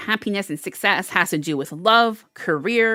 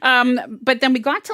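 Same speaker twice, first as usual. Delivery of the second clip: laughing into next words; 4 semitones higher, 3 dB louder than usual. Real, not acted. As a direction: laugh through it. Laughing at own joke.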